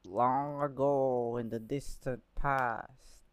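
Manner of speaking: slow, grand storybook opening; epic fantasy narrator. Pretend. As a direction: intone it like a fantasy legend. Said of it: "Good reference".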